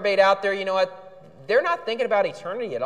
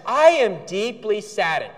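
mock pious; slower than usual. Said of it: "When people talk like this".

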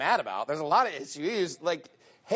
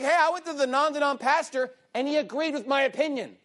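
mocking churchgoer; 9 semitones higher than usual.

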